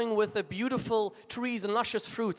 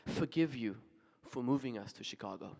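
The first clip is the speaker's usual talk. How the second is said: tearful mother; 6 semitones lower, 7 dB quieter than usual. Retold or imitated. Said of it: "And then tearfully she says".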